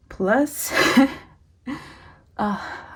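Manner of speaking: stressed laughing burst; nervous laugh. Real, not acted. Laughing at the rising total.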